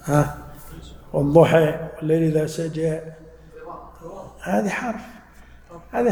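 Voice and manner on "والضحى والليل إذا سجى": final a of والضحى and سجى tilted to e; imala recitation. Shown as a demonstration. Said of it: "بعض العرب يميلون ال". («والضحى» و«سجى» بإمالة الألف الأخيرة)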